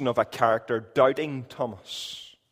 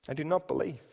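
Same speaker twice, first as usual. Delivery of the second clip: "I do not believe" dropped much softer, settled; quiet final refusal; 8 dB quieter, faster than usual. Acted. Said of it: "we could hear him saying".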